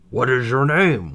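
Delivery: high, bright little dwarf; squeaky dwarf asking kindly. Acted. Dwarf voice asking Snow White.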